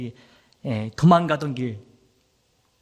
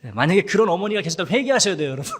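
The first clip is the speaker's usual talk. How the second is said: fast, through a laugh; 2 semitones higher, 5 dB louder, faster than usual. Real, not acted. Pastor teasing the mothers, laughing as he speaks. Joking to the congregation.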